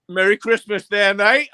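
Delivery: a chummy festive hello, lightly voiced; imitating a jolly neighbour; mock cheery greeting. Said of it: "He's like".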